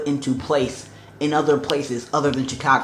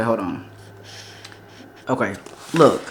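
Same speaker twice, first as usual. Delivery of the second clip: ordinary talk, nothing marked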